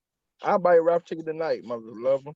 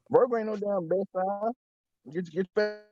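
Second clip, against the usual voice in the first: robot voice; 7 semitones higher, 3 dB quieter than usual. Real, not acted. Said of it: "He's over there on that robotic voice".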